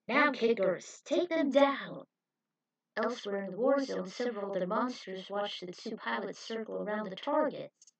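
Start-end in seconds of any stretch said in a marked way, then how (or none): 0.1-2.0 loud, slow attack command; shouted order. Acted. Coach orders the kickers to attack, shouted. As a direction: send the kickers in.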